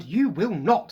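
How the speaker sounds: loud sharp cut-off of Fred; snapped. Acted. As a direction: slam the door on his plan. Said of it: "snapped Missus Weasley".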